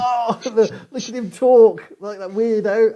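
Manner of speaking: high put-on gawping voice; playful mockery. Onlooker hearing a Southerner talk, playfully mocking. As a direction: jeer lightly at someone's accent, half laughing.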